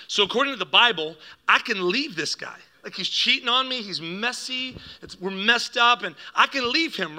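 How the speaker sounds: mildly exasperated, pitch climbing on each complaint; airing grievances with emphatic swoops; fed up. Retold or imitated. Fed-up mom puts her case to the pastor, exasperated. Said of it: "my mom was fed up".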